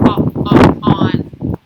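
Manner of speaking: loud O, o, on; teacher sounding out a letter. Shown as a demonstration. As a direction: open the o sound wide. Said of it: "What does on start with?".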